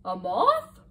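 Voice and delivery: slow, loud astronaut over the radio; drawn out like a moon landing broadcast. Acted. Astronaut speaks through helmet radio.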